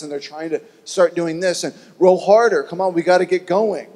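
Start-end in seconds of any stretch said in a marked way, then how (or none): 2.0-3.9 urgent shout. Acted. Disciples rowing in the storm.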